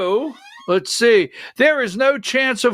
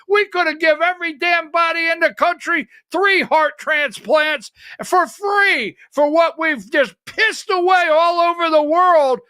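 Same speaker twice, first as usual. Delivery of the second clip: heated shout; 4 semitones higher than usual. Real, not acted. Ranting about wasted foreign money.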